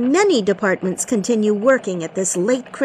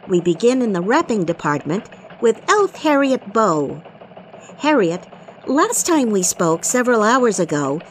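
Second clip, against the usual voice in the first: christmas elf. Acted. Elf news anchor voice.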